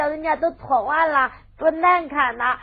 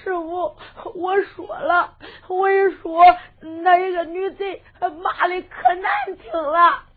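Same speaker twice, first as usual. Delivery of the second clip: tearful. Acted. Boy tells master through tears.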